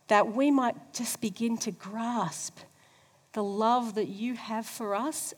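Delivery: earnest pastor's prayer. Real, not acted. Leads closing prayer.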